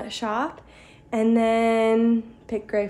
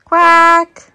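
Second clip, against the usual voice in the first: quack; 8 semitones higher, 12 dB louder than usual. Pretend. Mother reads animal book.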